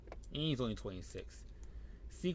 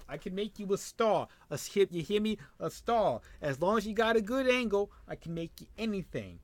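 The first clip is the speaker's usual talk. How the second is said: loud, higher wrestling-promo hype; hyped promoter pitch; 7 semitones higher, 7 dB louder than usual. Pretend. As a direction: sell the recruit on stardom, full volume. Hyping a recruit like a promoter.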